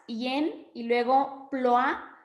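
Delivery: "yen" and "ploa" run together, vowels slowly joined across the word gap; slow, linking "y en" into "yen" and "soplo abrasado" into "ploa"; demonstrating the vowel merges slowly; sinalefa demo. Shown as a demonstration. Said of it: "contando las dos sinalefas".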